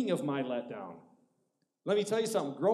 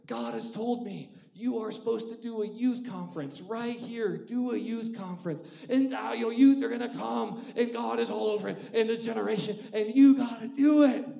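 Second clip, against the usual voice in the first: imitating a lady; 7 semitones higher, 5 dB louder than usual. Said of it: "she goes".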